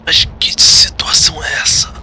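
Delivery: hushed, breathy inner question; whispered thought. Acted. Sunny whispers to himself, stunned by his chains. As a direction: whisper it to yourself in dismay.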